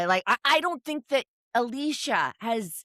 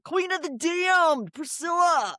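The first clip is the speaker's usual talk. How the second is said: slow, high crying shout; hammed-up wail; 9 semitones higher, slower than usual. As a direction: wail the name like a tragic heroine. Dramatic calling out Priscilla.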